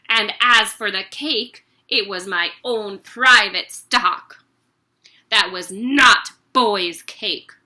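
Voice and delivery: loud ranting headmistress; angry accusation. Acted. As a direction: accuse him of stealing cake.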